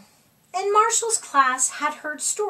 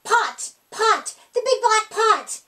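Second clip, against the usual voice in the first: higher, louder eager cries; excited shouting; 7 semitones higher, 5 dB louder than usual. A narrator's reading. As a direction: blurt out the answer. Kids shouting answer.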